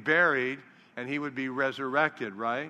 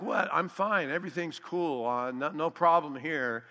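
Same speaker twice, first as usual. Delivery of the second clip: feigned nonchalance; 2 semitones higher than usual. Pretend. Disciples brushing off Jesus's concern, mock nonchalance. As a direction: play it cool, as if nothing's wrong. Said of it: "if the disciples responded like".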